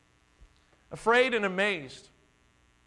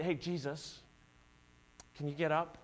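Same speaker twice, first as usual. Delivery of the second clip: low, much softer tentative ask; gentle; 3 semitones lower, 9 dB quieter than usual. Retold or imitated. Disciples gently nudging the sleeping Jesus, soft and low. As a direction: barely dare to wake him. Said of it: "They're not gently".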